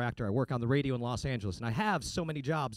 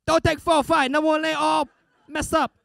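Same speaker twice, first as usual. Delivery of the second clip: high, shouted, hammed-up mock Asian accent; 13 semitones higher, 11 dB louder than usual. Comic mimicking what listeners expect him to sound like, shouted fake accent. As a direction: yell it in a broad fake Asian accent, slowly. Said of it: "We don't all sound like that".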